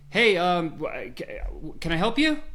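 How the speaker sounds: high, bright eager shop assistant greeting; eager salesman. Retold or imitated.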